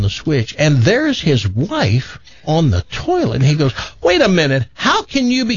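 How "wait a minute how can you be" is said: high-pitched baffled disbelief; acted shock. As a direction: climb in pitch, utterly confused. Husband shocked to see his wife.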